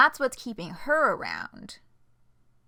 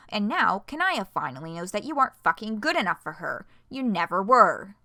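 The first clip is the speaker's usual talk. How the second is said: angry; 4 dB louder than usual. Acted. Cruel angry retort.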